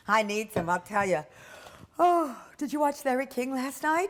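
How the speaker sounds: bubbly, loud coworker greeting a friend; chatty coworker. Acted. Danielle chatting up Rico in the break room, bubbly and loud. Role-play scene as Danielle.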